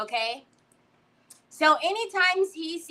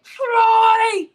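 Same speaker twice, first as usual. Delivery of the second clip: loud, high, drawn-out holler; hollered scolding across the house; retold yell; 7 semitones higher, 8 dB louder, much slower than usual. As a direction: call out the name in exasperation. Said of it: "when I was like".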